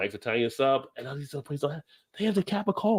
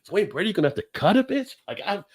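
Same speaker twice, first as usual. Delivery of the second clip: channel the comedian's fake threat, pitched up; Wayne Brady bit; 10 semitones higher than usual. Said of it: "I get like Dave Chappelle or Wayne Brady".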